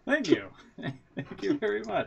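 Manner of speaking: amused thanks in a mock French accent; playful French-accented voice. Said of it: "Really good French accent".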